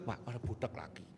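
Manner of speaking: normal talking voice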